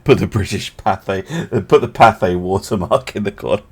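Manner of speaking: put-on old British newsreel announcer in RP; received pronunciation. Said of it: "Put on my best, um, received pronunciation voice".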